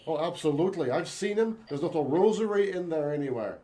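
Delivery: bad stage Irish accent. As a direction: ham up an Irish lilt. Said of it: "do not do good, uh, Irish accents".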